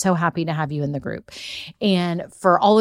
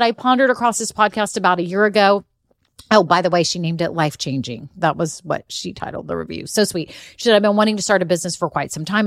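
fast reading. Shown as a demonstration. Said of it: "I'm gonna read it super fast".

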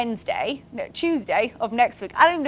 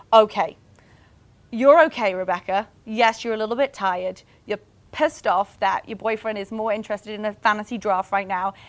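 self-reassurance; 3 semitones lower than usual. Retold or imitated. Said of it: "breathe out and be like".

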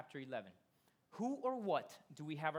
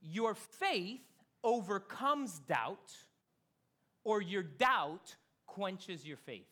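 slow, louder, drawn out; slow emphatic; 2 semitones higher, 6 dB louder, much slower than usual. Shown as a demonstration. Pastor making the point memorable for the church, slow and emphatic. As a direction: spell it out slowly. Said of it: "I wrote it down this way".

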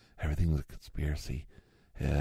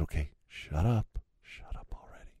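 fed-up dismissal. Retold or imitated. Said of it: "they said".

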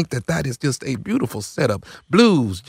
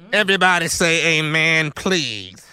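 toned-down plea; 2 semitones higher than usual. Pretend. Asks again after being teased for yelling.

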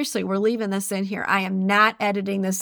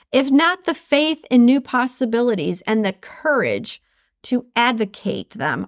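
reading aloud. Acted. Podcaster reading a Jane Addams quote, measured. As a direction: read the quote with care.

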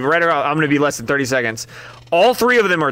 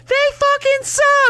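much higher, slow mock heckle from the back; Carol heckling; slower than usual. Carol heckling the pickle chips from the background, mock jeer. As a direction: jeer it like a shrill party guest in the back. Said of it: "Carol in the background's like".

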